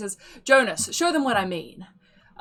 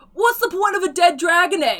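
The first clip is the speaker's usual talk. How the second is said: way-off fake Cockney accent, very loud, high, shrill; 10 semitones higher, 8 dB louder than usual. Narrating the bidding, a voice shouts out in a terrible fake cockney accent. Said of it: "in a terrible, not even close to Cockney accent".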